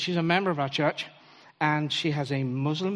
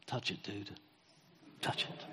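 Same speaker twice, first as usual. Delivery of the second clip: much softer, low and coaxing; quietly encourage, much lower and softer; gentle urging; 7 semitones lower, 12 dB quieter than usual. Retold or imitated. Obama softly urging the hesitant boy. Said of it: "And Obama says".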